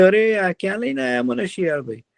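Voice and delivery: high, innocent little deer asking; a naive young deer, puzzled; deer's voice. Acted. Deer voiced in children's story. (ઊંચા અવાજે ભોળું હરણ)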